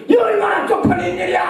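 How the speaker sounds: embarrassed outcry. Real, not acted. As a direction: shout how humiliating it was. Exclaiming his shame.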